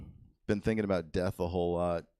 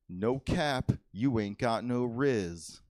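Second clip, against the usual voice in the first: put-on kid slang quote; slower than usual. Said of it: "and he said".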